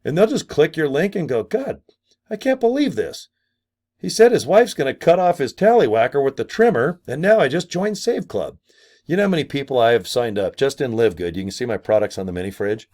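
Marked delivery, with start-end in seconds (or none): 1.4-8.6 high, amazed viewer voice; pitched-up viewer marvelling at the clip; amused viewer. Pretend. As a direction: gasp in disbelief like a delighted fan. Viewer reacting to the video.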